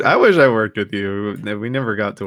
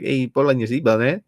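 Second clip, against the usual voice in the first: bad Hispanic accent. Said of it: "purposely bad".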